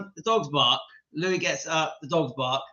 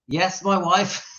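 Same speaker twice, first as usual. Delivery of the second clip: real giggles breaking out after the words; helpless crack-up; can't stop laughing; slower than usual. Real, not acted. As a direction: say it, then dissolve into laughter. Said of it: "I can't stop laughing".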